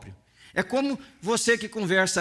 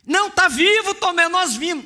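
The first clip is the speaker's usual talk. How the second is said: higher, louder eager protest; excited insisting; 9 semitones higher, 6 dB louder than usual. Retold or imitated. Disciples urge Thomas that Jesus lives, excited and loud. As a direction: burst out that you saw him.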